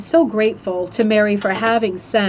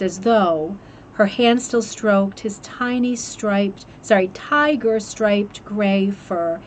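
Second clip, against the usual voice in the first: slow, measured poetry reading; poem reading. Acted. Host reading a poem about a cat rug to viewers, slow and tender. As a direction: read the verse gently, lingering on the images.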